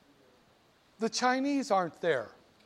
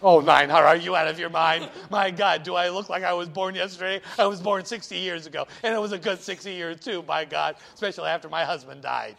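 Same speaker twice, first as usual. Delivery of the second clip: put-on haggling old lady; 3 semitones lower, 5 dB louder, faster than usual. Plays haggling old woman.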